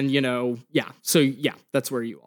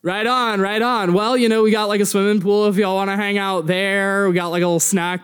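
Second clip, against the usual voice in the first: easygoing dude, slightly raised voice; laid-back club staffer; 4 semitones higher than usual. Acted. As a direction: offer the pool like a friendly slacker. Game master plays club staffer.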